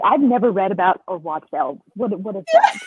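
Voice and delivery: mock bewilderment. Friend mimics someone blanking on elves, mock bewildered. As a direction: play up knowing nothing, pitch leaping on the question.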